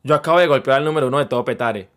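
low-pitched imitation of an amazed mother; awestruck mom. Mom marvelling at having hit a star, low mock awe. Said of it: "mi mamá ve el pasado y dice".

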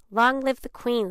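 high, loud acclaiming cry; squawking crow. A narrator's reading. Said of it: "squawked the crow".

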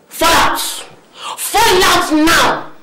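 furious, commanding mother-in-law; shouted command to leave; angry order. Acted. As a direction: order her out of the house.

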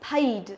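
"Paid" with long ay glide and d ending; teacher's "Paid", full A vowel; correct model. Shown as a demonstration. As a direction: model "Paid" clearly, falling. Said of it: "Âm A, nhớ chưa?".

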